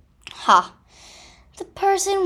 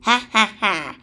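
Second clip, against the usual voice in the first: gleeful laugh; 4 dB louder than usual. Acted. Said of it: "The badger laughed in glee".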